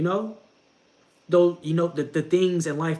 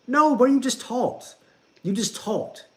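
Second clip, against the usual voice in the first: higher, louder, slow insistent scold; emphatic scold; 10 semitones higher, 4 dB louder, slower than usual. Acted. Scolding a friend who only talks to God, emphatic. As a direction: drive it home like a stern big brother.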